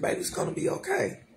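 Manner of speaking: high, whispered quick reassurance; husband's soothing whisper. Retold or imitated. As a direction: whisper it like calming her down. Husband comforting her crying.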